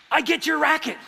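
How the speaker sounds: high, loud triumphant claim; gleeful kid. Retold or imitated. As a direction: crow like a child who just won. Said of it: "And the kid goes".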